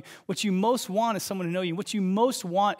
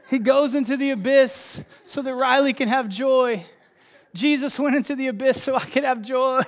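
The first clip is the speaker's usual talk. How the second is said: tearful excited outburst; 8 semitones higher, 7 dB louder than usual. Retold or imitated. Preacher retelling his hotel-room outburst to his wife, laughing and crying. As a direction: blurt it out half laughing, half crying, much higher. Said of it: "And I'm like".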